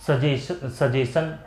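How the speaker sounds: सजेशन said with a plain sh, no ch; wrong suggestion. Shown as a demonstration. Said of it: "सजेशन नहीं". (सजेशन बिना च की आवाज़)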